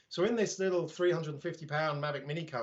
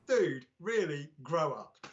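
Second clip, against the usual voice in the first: slow, drawn-out put-down; slow, unimpressed reply to a rude commenter; weary put-down; slower than usual. Retold or imitated. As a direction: drag out "Dude" like you're tired of him. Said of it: "I actually replied to him, I said".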